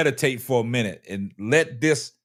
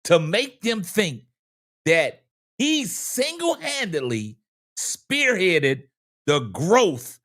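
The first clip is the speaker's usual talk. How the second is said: country Wayne voice; 2 semitones higher than usual. Acted. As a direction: let each phrase sizzle, spaced out with long pauses. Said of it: "in my country Wayne voice".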